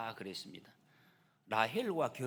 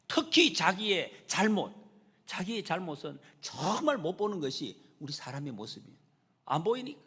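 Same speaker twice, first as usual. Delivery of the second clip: ordinary delivery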